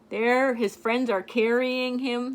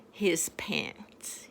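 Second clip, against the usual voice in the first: whispered; 8 semitones lower, 9 dB quieter than usual. Real, not acted. Reading to a child, whispered his pants. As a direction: drop to a whisper for the last words.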